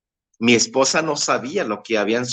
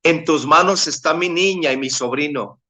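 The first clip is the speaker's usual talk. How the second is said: retold pleading prayer, pitched higher; crying out to God; 4 semitones higher than usual. Father praying over his wounded daughter and nephew, pleading cry to God. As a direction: re-enact a fervent plea, rising as it builds. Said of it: "empecé a clamar a Dios".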